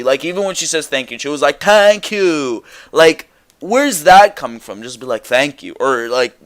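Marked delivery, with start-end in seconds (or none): 1.6-2.6 high, drawn-out projected thanks; Asuka's intensity. Retold or imitated. Host mimicking how Asuka says thanks, high intense projection. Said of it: "everything has the intensity". 5.3-5.7 calm. Shown as a demonstration. Host showing how Asuka could thank, calm. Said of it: "something calm".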